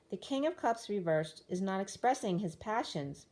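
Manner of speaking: hoarse, strained voice; losing voice. Real, not acted. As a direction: voice giving out, push on through. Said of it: "I'm losing my voice".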